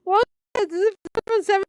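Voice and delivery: high-pitched, giggling through the words; can barely get it out for laughing. Real, not acted. Streamer cracking up over a post she is reading, laughing. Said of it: "just laughing myself with this thing".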